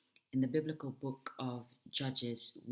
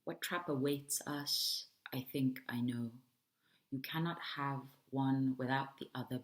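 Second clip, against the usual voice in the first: measured poem recital with deliberate pauses; poetry reading. Acted. Poet reading to an audience as a provocation, poetry reading. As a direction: read it as verse, phrase by phrase.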